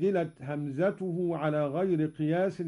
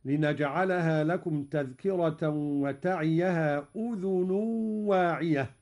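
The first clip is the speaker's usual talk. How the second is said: Quran recitation. Acted. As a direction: recite it with tajweed. (تلاوة مجودة)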